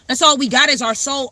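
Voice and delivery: normal talking voice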